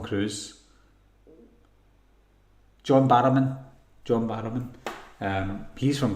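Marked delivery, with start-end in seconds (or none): 2.8-3.6 loud burst of remembering; sudden recall. Real, not acted. Streamer finally remembers the actor's name, loud sudden recall. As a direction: blurt the name out loudly as it comes back.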